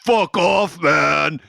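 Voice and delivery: high, mock angry retort; mock snap back. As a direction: tell him off with some heat. Girl retorts to cab driver.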